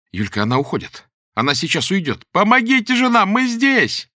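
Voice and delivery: rising to high, loud screams; desperate screaming. Acted. Lera screams in panic as help leaves. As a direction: panic as the rescuer walks away.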